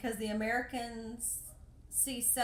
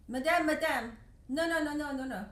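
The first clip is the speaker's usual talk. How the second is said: put-on higher, louder begging child; pleading girl; 5 semitones higher, 7 dB louder than usual. Begging girl to tourist, high urgent pleading. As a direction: plead like a little street girl.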